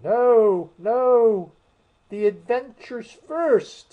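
high, loud, impatient. A narrator's reading. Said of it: "in an impatient tone".

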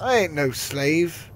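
slow, loud indignant retort. Acted. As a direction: refuse it with mock outrage. Indignant retort in role play.

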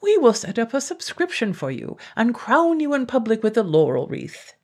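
pompous mayor. A narrator's reading.

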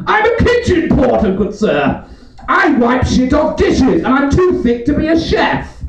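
a high, lightly posh kitchen porter; mock posh. Kitchen porter introduces himself to a gentleman, mock posh. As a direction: puff it up like a grand title. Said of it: "It's like nice and posh".

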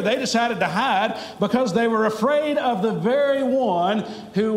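fervent pulpit preaching with a lift. Acted. Pastor preaching to the lost in the pews. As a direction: preach it out to the whole church.

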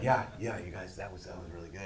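mock tearful, barely getting the words out; imitating choked-up praise. Camera guy wiping tears after the audition, imitated choked-up praise. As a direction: voice falls away to a whisper. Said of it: "wiping tears away from his eyes".

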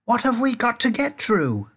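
high, bewildered question; alarmed shout. A narrator's reading. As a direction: call out in confusion. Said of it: "shouted Grandpa Joe".

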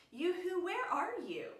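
high, loud call across the garden. Acted. God calling out for Adam and Eve in the garden, high and loud. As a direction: sing out to find someone hidden. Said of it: "God called out to them".

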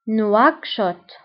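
نواكشوط as French nwak-shot, falling; French-style نواكشوط, two separate syllables; French pronunciation. Shown as a demonstration. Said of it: "بالفرنسية أيضًا".

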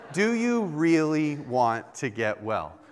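slow, deliberate questioning; wife pressing the question. Retold or imitated. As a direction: lean on each word, pressing. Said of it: "come up to me while I'm sick and said".

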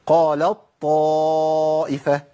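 قالت طائفة with ت become ط, doubled, long held madd; full idgham into ta'. Shown as a demonstration. Teacher reciting the corrected form, ت merged into ط. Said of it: "بشيل التاء وأبدلها بطاء".

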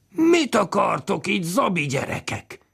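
high, slow shouting father; drunk father's roar. Acted. Father roaring at the children in the house, slow and high. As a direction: bellow at the kids like an angry drunk. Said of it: "elordította magát".

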